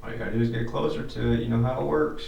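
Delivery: loud and fast coaxing; calling out. Real, not acted. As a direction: urge it on, quickly and loudly. Urging a ghost, loud fast.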